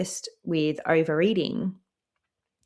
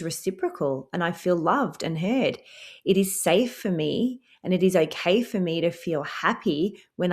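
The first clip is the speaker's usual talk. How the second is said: reassuring affirmation. Shown as a demonstration.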